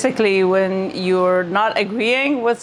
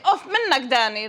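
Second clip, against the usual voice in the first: annoyed jab; 3 semitones higher than usual. Retold or imitated. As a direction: needle Danny on purpose. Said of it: "I'll say".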